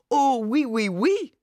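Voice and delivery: high, loud, hammed-up queenly "Oh, oui"; mock queen. A narrator's reading. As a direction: play a preening queen waving a hanky. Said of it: "winkte er mit dem Tuch wie eine Königin". (übertrieben königlich, hoch und laut)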